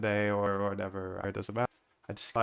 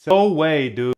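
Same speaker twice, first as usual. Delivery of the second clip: higher, much louder exclamation; loud disbelief; 4 semitones higher, 10 dB louder, slower than usual. Real, not acted. Streamer reacting to code not working, loud disbelief. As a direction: burst out in disbelief.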